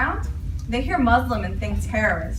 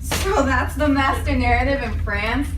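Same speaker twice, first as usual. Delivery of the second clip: high incredulous questions; can't believe what was said; indignant disbelief; 4 semitones higher than usual. Acted. Indignant disbelief, pitch jumps.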